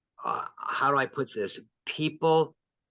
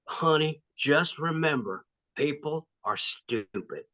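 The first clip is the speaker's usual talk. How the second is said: slow Southern drawl, lightly imitated; Southern mom; 2 semitones higher, slower than usual. Mom sending her child off to college, slow Southern accent. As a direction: imitate mom's Southern accent, stretching the words. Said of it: "in her Southern accent, she'd go".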